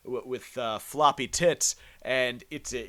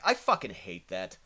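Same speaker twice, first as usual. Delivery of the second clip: ordinary delivery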